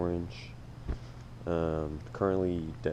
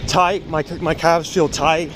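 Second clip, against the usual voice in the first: while running. Real, not acted. Check-in at mile three.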